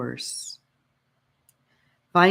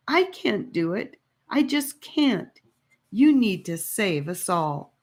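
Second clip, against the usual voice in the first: desperate pleading; 4 semitones higher than usual. Acted. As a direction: plead as if all depends on him. Annika begging Gabe.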